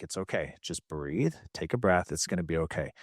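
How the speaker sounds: self-soothing. Retold or imitated. Soothes himself when anxious.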